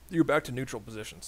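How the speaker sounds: words with a burp in them; talking while burping. Real, not acted. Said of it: "Sorry, burping a lot".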